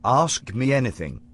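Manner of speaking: put-on British accent, lightly done. Future Harper to his younger self, in a put-on British accent. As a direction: future self playing a posh Brit. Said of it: "You adopted this accent as part of your disguise".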